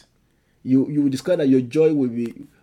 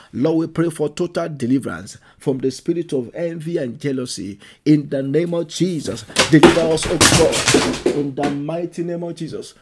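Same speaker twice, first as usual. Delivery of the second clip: preaching prayer. Acted. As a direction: cry out to the Lord, pleading hard. Prayer of deliverance.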